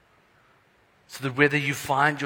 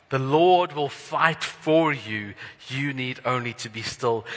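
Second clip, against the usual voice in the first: slow, louder, ringing declaration; louder slow proclamation. Shown as a demonstration. Preacher repeats verse fourteen, proclaiming it louder. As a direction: proclaim it boldly and slowly. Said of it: "something I would like us to hold on to".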